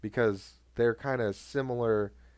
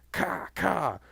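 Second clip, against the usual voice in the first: imitated gunshots; 5 semitones higher than usual. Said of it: "It was".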